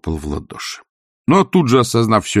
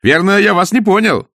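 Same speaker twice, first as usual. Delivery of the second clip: high, louder protest; polite disbelief; 13 semitones higher, 4 dB louder than usual. A narrator's reading. Nephew doubting he heard his uncle right, incredulous. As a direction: offer it brightly as a misunderstanding.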